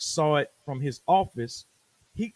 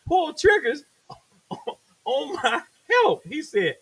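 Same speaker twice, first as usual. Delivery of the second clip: studio boss; 10 semitones higher than usual. Retold or imitated. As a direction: scold the rapper. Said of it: "Kurt was like".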